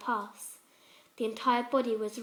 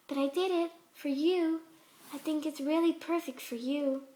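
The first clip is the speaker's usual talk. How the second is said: a hint of a gentle, higher pony voice, sweetly unsettling; lightly voiced sweet Fluttershy; 3 semitones higher than usual. Fluttershy voice again.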